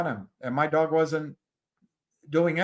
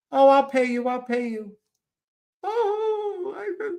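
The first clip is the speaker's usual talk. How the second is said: high put-on voice, rushed apology; flustered woman's voice; 12 semitones higher than usual. Owner offering to pay him, high flustered voice. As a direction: squeak out the offer in a ditzy lady voice.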